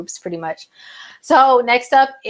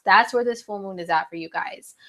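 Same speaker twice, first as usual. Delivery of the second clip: whisper; 2 semitones lower, 5 dB quieter than usual. Real, not acted. Sudden whispered aside to viewers.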